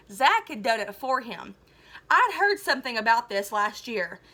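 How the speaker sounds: lively read-aloud to a class; storybook reading voice; story narration. A narrator's reading. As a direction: tell the story to the students. Teacher reads novel aloud.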